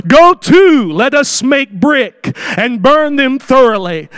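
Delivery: builders' call. Acted. Quoting tower builders.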